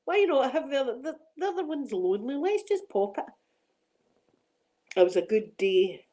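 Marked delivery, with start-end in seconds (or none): 0.0-3.2 high, giggly devil-may-care; egging each other on, laughing; tipsy excitement. Retold or imitated. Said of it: "We're like".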